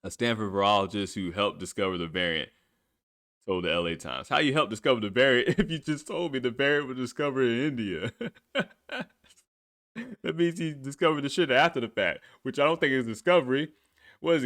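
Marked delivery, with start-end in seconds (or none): 4.3-8.7 laughing. Real, not acted. Laughing disbelief.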